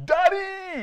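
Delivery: shouting. Showing how believers should cry out to their Heavenly Father, shouting Daddy. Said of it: "You need to shout".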